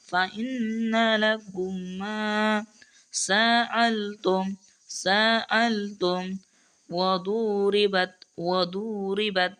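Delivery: slow chanted recitation of each word; تلاوة مجودة بطيئة; Quran recitation. Shown as a demonstration. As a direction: recite each word with measured tajweed stretches. Teacher recites verse word by word.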